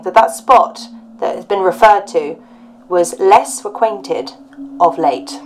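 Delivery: measured storyteller's read-aloud; story narration. Acted. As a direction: read out an old ghost report with deliberate emphasis. Reads a ghost report aloud.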